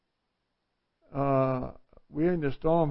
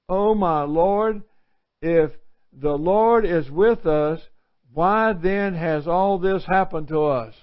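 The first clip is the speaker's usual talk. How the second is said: Gideon pleading; 4 dB louder, slower than usual. Acted. Gideon's plea to God.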